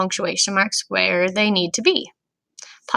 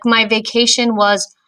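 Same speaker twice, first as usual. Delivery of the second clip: mock excited; slower than usual. Shown as a demonstration. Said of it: "Look for powerful words in these sentences".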